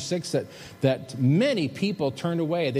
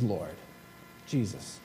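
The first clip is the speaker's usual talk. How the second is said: lower, softer, devoted address; reverent hush; 8 semitones lower, 9 dB quieter, slower than usual. Acted. Simon Peter answering Jesus, hushed reverent plea. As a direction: say his name in awe.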